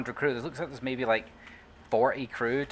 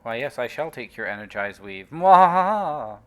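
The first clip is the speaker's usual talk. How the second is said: sneering panto villain; 7 dB louder than usual. Acted. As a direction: gloat like a cartoon villain. Gloating over looted game item.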